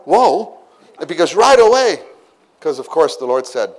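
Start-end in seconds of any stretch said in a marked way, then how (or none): 0.1-0.6 a high, drawn-out whoa of wonder; mock astonished whoa; amazed whoa. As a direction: react like the net just filled. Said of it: "they're like".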